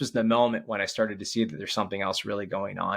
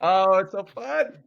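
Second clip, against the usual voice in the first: slow, louder, high thrilled sigh; delighted gush; 8 semitones higher, 5 dB louder, slower than usual. Real, not acted. Father glows after his son leaves, slow and delighted. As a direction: savour the joy of the moment. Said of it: "I love when he does that".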